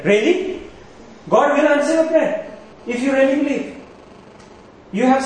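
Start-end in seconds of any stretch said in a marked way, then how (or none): 0.0-3.8 incredulous mock. Real, not acted.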